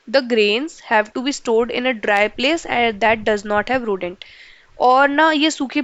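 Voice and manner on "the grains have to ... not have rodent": slow dictation for notes, each word spaced out. Shown as a demonstration. Teacher slowly dictating a note to the class. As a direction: read it out slowly so students can copy.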